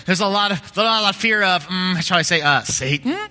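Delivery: a hint of the prim Church Lady, rising on "Satan"; lightly mock the pious gossip's "Satan?"; playful nod to Dana Carvey's Church Lady; Church Lady impression. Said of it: "not think Dana Carvey".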